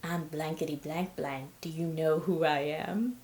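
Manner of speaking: slow, lightly mocked drunken self-importance; a hint of a boastful drunk; drunk braggart. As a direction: imitate a trashed man showing off, slowing down. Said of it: "super trashed, at the bar".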